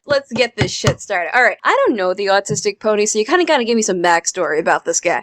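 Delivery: put-on quick, brash Jersey accent; fast-talking New Jersey accent. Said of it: "I'll take your Jersey accent".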